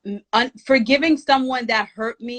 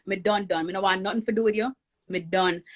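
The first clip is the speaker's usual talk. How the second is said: Jamaican patois. Retold or imitated. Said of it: "You know, I'm Jamaican".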